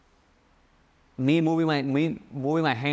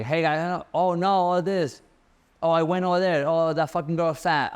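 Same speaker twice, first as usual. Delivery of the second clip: lampoon a brash influencer going on; mocking Andrew Tate; 3 semitones higher than usual. Coach mocks Andrew Tate's rambling video talk, hammed-up. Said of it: "he's always talking like this".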